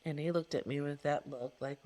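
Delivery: ordinary talk, nothing marked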